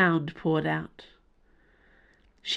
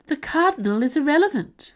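high alien voice; 10 semitones higher than usual. Acted. Alien dismisses Cho.

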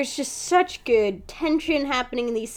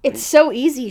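sultry voice; 3 semitones higher, 4 dB louder than usual. Retold or imitated. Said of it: "she says in a sultry voice".

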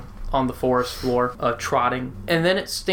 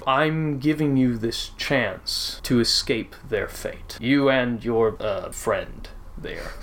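god voice; 3 semitones lower than usual. Acted. GM speaks as Tyr.

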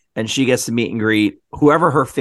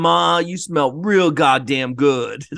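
drawn-out slow smooth line; mock celebrity flirt; slow come-on; much slower than usual. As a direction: stretch every word, savor it. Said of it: "That's how I heard it".

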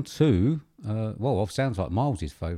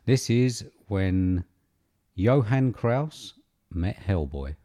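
trailer announcer; much slower than usual. Acted. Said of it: "announcing the impression scene".

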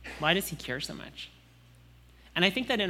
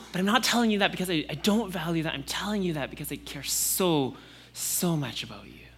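fatherly reassurance; 3 semitones higher than usual. Pretend. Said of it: "that fatherly heart that says".

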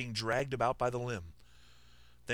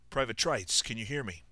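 raspy firm voice. Acted. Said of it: "raspy and firm jaunt".

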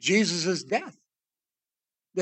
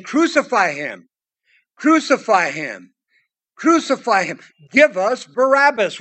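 crowd's cry; 4 dB louder than usual. Retold or imitated. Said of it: "they cried out again".

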